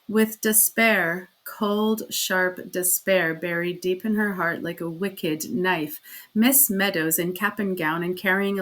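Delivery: measured, dramatic storytelling; storyteller voice; story narration. A narrator's reading. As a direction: read it like a sad tale.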